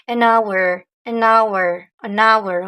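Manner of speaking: "An hour" with no h, linked "an-our"; silent h. Shown as a demonstration. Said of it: "le H n'est pas prononcé". ("an hour" sans h, en liaison)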